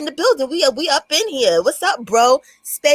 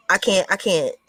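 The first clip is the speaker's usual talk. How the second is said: laughing disbelief; 4 semitones lower than usual. Real, not acted. Laughing at the video.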